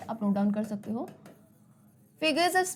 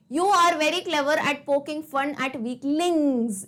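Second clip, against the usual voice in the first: slow poem reading; much slower than usual. Shown as a demonstration. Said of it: "इंग्स का sound है".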